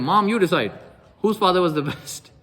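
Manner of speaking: lightly voiced child demanding a verdict; squabbling son. Arguing son asks his mom to decide, insistent appeal. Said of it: "they were having an argument".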